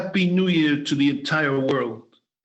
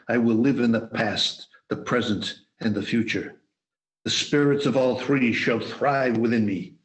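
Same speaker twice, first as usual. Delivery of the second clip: solemn pleading vow. Acted. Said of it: "As he pleaded with the spirit".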